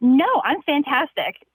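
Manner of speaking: very upbeat, bright, cheerful voice. Retelling a woman's reply over the intercom, imitating her upbeat voice. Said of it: "in the most upbeat voice".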